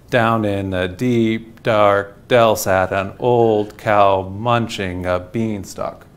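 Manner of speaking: slow, measured dactylic recitation; metered poetry reading. Shown as a demonstration. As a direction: read each foot slowly and evenly. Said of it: "so it would be read like that".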